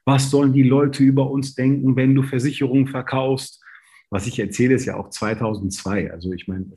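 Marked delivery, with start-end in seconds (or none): 0.1-3.6 mock outraged father. Father furious, retold.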